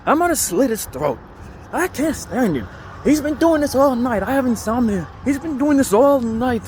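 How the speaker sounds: high, loud, squawking old lady imitation; elderly lady voice.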